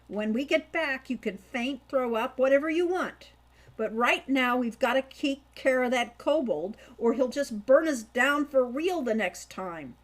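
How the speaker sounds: rally him, no room for doubt; firm urging. Acted. Hawk steadying his pale brother, firm urging.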